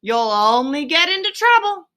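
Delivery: lightly voiced worried Ratty; warning rat voice. Rat warns Toad in story.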